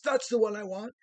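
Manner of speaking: put-on a boy telling the farmer his choice, high and eager; little boy voice. Boy picks the runt puppy.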